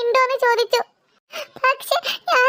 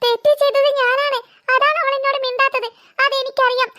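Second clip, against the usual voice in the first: acted tearful confession with sniffly breaths; upset and close to sobbing. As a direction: plead through held-back sobs. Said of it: "ഇവൻ കരയുകയാണ്".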